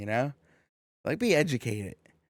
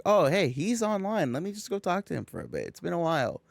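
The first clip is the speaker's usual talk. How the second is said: higher-pitched, light self-talk on spotting a friend; chirpy, offhand imitation of noticing someone; casual pleased greeting; 5 semitones higher than usual. Speaker to self on seeing a friend online, chirpy and casual.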